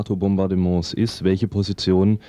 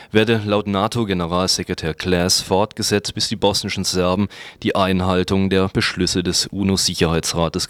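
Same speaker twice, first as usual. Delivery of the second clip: news read. Acted. Reads a news commentary.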